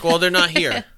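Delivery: mild disbelief. Retold or imitated. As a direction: retell your own baffled remark with a lift. Finds the house empty.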